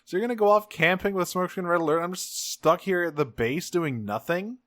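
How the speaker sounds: a hammed-up furious teen; imitating Alexis fuming at being left out; pissed off Alexis. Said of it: "she is extremely pissed".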